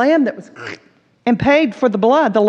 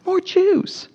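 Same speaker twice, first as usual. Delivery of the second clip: slow, high, anguished cry; anguished lament; 9 semitones higher, slower than usual. Retold or imitated. Schindler holding up his watch, slow anguished lament. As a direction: mourn the lives he could have saved. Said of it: "And he said".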